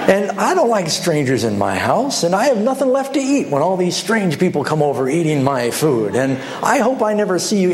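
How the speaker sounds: put-on mild grumpy old man scolding a guest. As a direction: snap at the intruder like an old crank. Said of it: "this grumpy old man".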